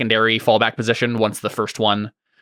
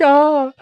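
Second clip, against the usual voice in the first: high, loud mock "ah"; mock cry; 5 dB louder than usual. Players imagine wastelanders at a geyser of salt, mock cry. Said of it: "they're like".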